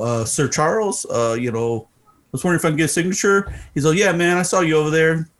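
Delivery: a loose, quick Charles Barkley voice. Retold or imitated. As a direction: rattle it off lightly as Barkley. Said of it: "That's my worst impression of Charles Barkley".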